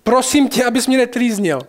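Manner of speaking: a touch of a pitiful demon's plea; pleading demon. Retold or imitated. Demon begging Jesus not to torment him, mock pleading. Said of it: "začne žadonit a smlouvat s Ježíšem".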